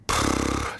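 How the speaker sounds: low puff of air; imitated exhale. Imitating Knight turning to the camera, exhaled puff. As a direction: blow out a wordless breath. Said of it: "turns to the camera and goes".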